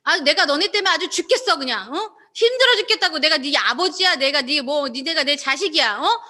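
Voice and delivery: hammed-up father scolding his kids; arguing, exasperated. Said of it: "이렇게 따지면서 얘기한 게 아니라".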